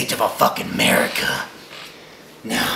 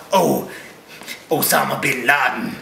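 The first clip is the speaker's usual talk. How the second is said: lightly voiced dopey gun nut; mock the YouTube conspiracy guy, slurring his name. Ranting at a conspiracy YouTuber, lightly mocking his voice. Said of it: "That's a voice, that's what you sound like".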